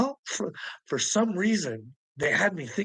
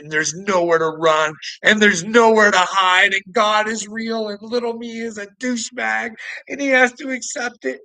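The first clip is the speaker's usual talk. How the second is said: climbs to a loud, higher-pitched shout; building rant; 5 semitones higher, 6 dB louder than usual. Real, not acted. Threatening his online rival, rising to a shout. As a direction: build from firm to yelling.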